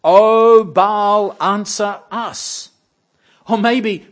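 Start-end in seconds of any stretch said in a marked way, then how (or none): 0.0-2.7 high, very loud, drawn-out plea; a frantic shouted prayer; desperate cry to Baal. Pretend. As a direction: wail to a silent god. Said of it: "So cry louder".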